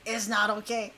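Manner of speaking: quiet, low mimicking voice; Inosuke. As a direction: echo the character in a small, low voice. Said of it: "Like Inosuke in Demon Slayer is like".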